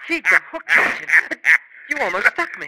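high, loud startled yelp at the hook; startled cry. Acted. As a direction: jump back from the hook, shouting. Hook nearly jabs him.

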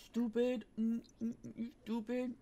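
mock the word; mocking echo.

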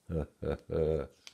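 short storyteller's chuckle; brief amused laugh; closing chuckle. A narrator's reading. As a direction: chuckle to round off the tale.

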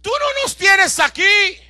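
slow, loud urgent call of Pablo. Acted. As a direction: plead with the jailer to stay. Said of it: "Pablo le dice". (Pablo grita despacio al carcelero que no se mate)

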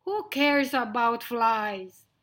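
loud, dismissive question; roaring lion. Acted. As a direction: wave it away as a scornful lion. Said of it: "roared Lionel".

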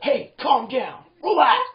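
loud, high yell to calm down; ordering shout. Acted. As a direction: shout it as a sharp command. Acts yelling at upset person.

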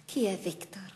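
hushed, breathless question; whisper. Acted. Mother whispering to her daughter about the unseen boy. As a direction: whisper it, unsettled.

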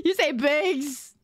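bags drawn out as baygs; slow, exaggerated baygs for bags; accented BAGS. Shown as a demonstration. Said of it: "Instead of bags".

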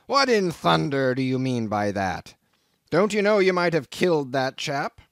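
angry. A narrator's reading. Captain confronts Queequeg.

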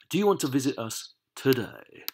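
measured, projected reading of the question; clear read-out. Shown as a demonstration. Teacher reading the next exercise to the class, clearly projected.

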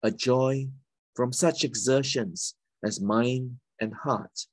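measured poem recital with pauses between phrases; poetry reading. Acted. Poet reading a poem of Singapore's places and heritage, measured recital. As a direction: read your poem aloud, phrase by deliberate phrase.

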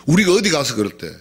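ordinary talk, nothing marked

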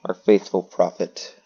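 slow, measured, declaiming; mock-grand proclamation. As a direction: proclaim it slowly and firmly, with weighty pauses. Mock-grand proclamation of game plan.

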